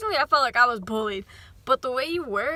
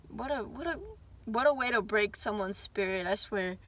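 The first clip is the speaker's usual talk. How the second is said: much softer, wry lament; hushed dismay; 2 semitones lower, 5 dB quieter than usual. Retold or imitated. Humiliated kid lamenting a broken spirit, soft and wry. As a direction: sigh it out like a defeated kid.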